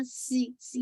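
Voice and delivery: सी as a bare hissing whistle; wrong whistling S. Shown as a demonstration. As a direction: hiss सी as the sound to avoid. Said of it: "ये sound नहीं है". (सी में सीटी जैसी आवाज़)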